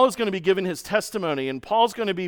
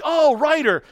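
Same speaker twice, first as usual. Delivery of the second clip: higher and louder, eager shout from the crowd; kids calling out; 9 semitones higher, 5 dB louder, slower than usual. Retold or imitated. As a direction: call it out like an excited kid.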